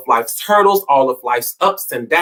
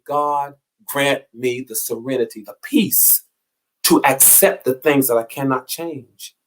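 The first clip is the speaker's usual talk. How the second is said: prayer. Acted. Speaker reciting the Serenity Prayer to listeners, hushed prayerful tone.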